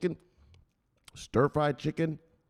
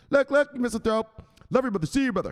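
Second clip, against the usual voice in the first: excited hype; 11 semitones higher, 3 dB louder than usual. Pretend. Hyping a follower on stream.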